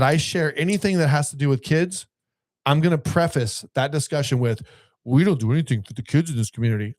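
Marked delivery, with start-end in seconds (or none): 5.0-7.0 mocking, snotty echo of a complaint; sarcastic quote of local grumblers. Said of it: "all sarcastic and snotty".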